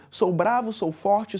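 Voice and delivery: lines run whole in an even cadence; connected, measured poem recitation; rhythmic verse reading. Shown as a demonstration. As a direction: read the verse with a steady beat. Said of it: "você percebe que tem uma cadência ali".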